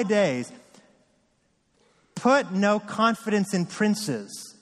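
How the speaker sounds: slow, measured reading of hymn verses; hymn recitation. Acted. Preacher closing with hymn verses, slow reverent recitation. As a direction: recite the hymn lines like a prayerful poem.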